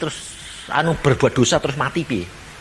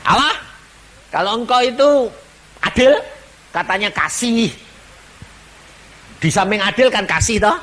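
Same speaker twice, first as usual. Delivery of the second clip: high, pleading outcry to God from the dark; retold crying out; 9 semitones higher than usual. Sinner in the darkest place crying out to God, high pleading. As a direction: call up to Allah, high and desperate. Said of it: "dia teriak-teriak begini".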